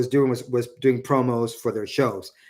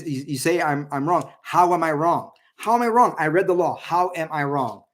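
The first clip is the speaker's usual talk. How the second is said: imitating an indignant demand, pitch climbing to a high peak on the repeated question; a hammed-up, exasperated retelling of him pressing his point; mock indignant Vance; 4 semitones higher than usual. Retelling Vance pressing Walz in the debate, mock indignant.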